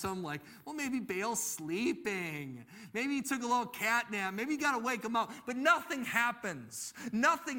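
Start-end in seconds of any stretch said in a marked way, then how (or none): 0.6-5.3 playful imitation of a taunt; mock taunting. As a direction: tease them with a lightly acted jibe. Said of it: "starts to taunt".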